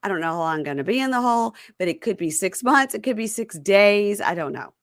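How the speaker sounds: high, pleading mock of the boyfriend; squeaky clueless boyfriend; whiny inmate voice. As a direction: play dumb in a high whine. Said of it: "And he goes".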